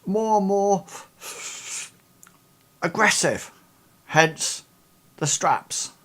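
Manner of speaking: high woman's voice, choosing words with pauses; hesitant Ida. Acted. Ida describing the decaying man to the investigators, a high hesitant woman's voice. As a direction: search for the words delicately. GM holds Ida's voice.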